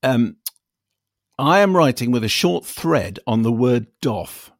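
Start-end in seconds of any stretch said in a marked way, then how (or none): 1.4-4.5 a listener email read out on air, measured and deliberate; email read aloud. Acted. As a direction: read the listener's letter out carefully.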